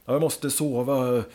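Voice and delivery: drawn-out, lightly acted grogginess; just woken up. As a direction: imitate someone groggily needing sleep. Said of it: "bara yrvaken".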